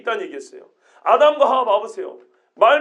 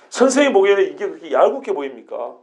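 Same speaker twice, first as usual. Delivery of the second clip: challenging; 7 semitones lower than usual. Shown as a demonstration. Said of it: "그런 뉘앙스예요".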